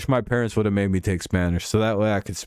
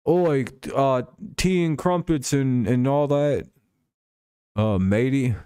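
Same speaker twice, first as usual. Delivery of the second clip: put-on higher, clumsy British accent; badly faked British accent; 5 semitones higher, slower than usual. Streamer who can't do accents attempts British, badly faked. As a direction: fake a cartoon Brit, badly. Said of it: "I can't do accents".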